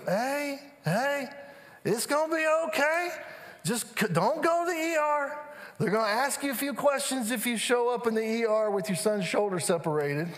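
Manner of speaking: lightly put-on voice talking someone down; reassuring doctor. Doctor soothing a dad headed for the ER, reassuring. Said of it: "he just kinda talks like this".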